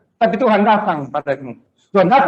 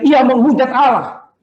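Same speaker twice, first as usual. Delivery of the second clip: slow, high accusing cry; imitated crowd shout; 4 semitones higher, slower than usual. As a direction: draw out the accusation as if from the mob. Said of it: "Ketika orang teriak-teriak". (menirukan teriakan tuduhan)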